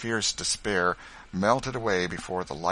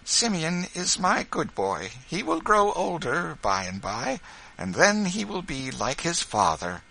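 smiling mother; 10 semitones higher, 3 dB louder than usual. Acted. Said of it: "his mother only smiled and said".

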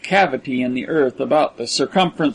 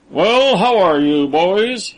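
mild mock-friendly greeting, louder and slow; genially; 4 semitones higher, 3 dB louder, slower than usual. A narrator's reading. Braddock greeting his prisoners in the pit, genially. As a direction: greet them with cruel cheer. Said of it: "he inquired genially".

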